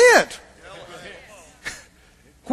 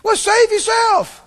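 higher, slow sarcastic jab; higher, slow sneering demand; mocking thief; 11 semitones higher, 5 dB louder, slower than usual. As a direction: taunt him from the next cross. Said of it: "Same tone".

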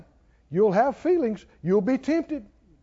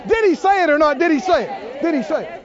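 preaching shout; 8 semitones higher, 6 dB louder, faster than usual. Real, not acted. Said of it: "preacher pressing the point".

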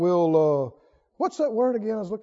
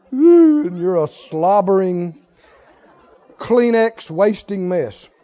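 mocking jab; 3 semitones lower, 7 dB louder, slower than usual. Real, not acted. Mocking the crier.

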